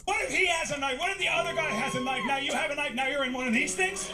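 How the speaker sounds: mock high voice. Mocking friend in high voice.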